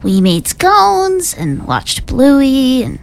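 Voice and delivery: put-on slow, lightly crinkly old lady; a hint of a crinkly granny. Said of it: "Say that in an old crinkly voice".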